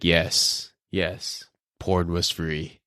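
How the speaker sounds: put-on low, slow old grandpa voice. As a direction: drawl it like a wise old grandpa. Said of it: "I'll just be like".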